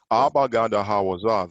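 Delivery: "Abba, Gada, Hawaza" recited as letter names, each with its vowel; letters named individually. Shown as a demonstration. Teacher showing how letters are pronounced individually, recited letter names. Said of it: "how we pronounce the letters individually".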